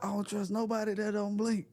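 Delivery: laughing. Real, not acted. Laughing at own joke.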